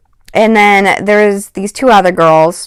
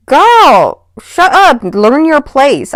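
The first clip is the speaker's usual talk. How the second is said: much higher, louder put-down; indignant; 6 semitones higher, 4 dB louder, much slower than usual. Real, not acted. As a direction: scold her sharply from above. Speaker venting at the girl.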